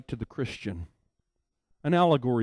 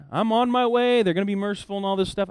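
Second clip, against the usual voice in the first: cheerful; 6 semitones higher, 3 dB louder than usual. Retold or imitated. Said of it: "he comes cheerfully".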